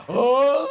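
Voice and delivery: loud, acted childbirth groan; groan of labour pain. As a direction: groan out as if giving birth. Acting out agony of childbirth. (erangan sakit melahirkan)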